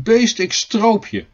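high, drawn-out angry threat; storybook roar of rage, stretched out slowly; wild roar. A narrator's reading. Klaas threatening the cat in his garden, wild roar. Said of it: "wild brullend".

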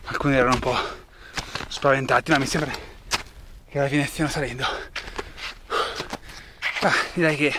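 panting from the climb; breathless, words between breaths. Real, not acted. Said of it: "scusate il fiatone".

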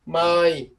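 "Mai" with the vowel held long; drawn-out vowel. Shown as a demonstration. Teacher shows students how to lengthen the sound, drawn-out "Mai". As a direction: stretch out "Mai" slowly as a model. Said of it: "Kéo dài cái âm ra".

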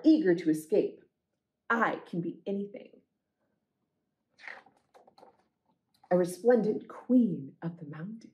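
gentle storytime narration, unhurried; picture book reading. A narrator's reading. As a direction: read it like a bedtime story to kids. Reads picture book aloud.

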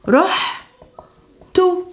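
رحتوا drawn out "rooh-tooo", the final u stretched; slow model word. Shown as a demonstration. Teacher slowing رحتوا to show learners the added u. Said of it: "we add an u at the ending".

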